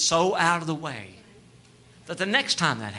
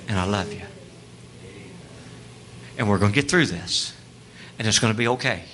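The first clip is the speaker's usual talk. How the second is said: lowered, hushed divine comfort; tender voice of God; 5 semitones lower than usual. Acted. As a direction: gently reassure a loved bride. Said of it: "the Holy Spirit saying".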